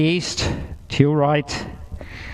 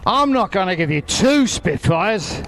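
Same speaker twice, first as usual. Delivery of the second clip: market trader patter, stress on two; raising the offer like a stall holler; sing-song market hollering; 3 semitones higher than usual. Pretend. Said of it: "I'm gonna sound like a market trader now".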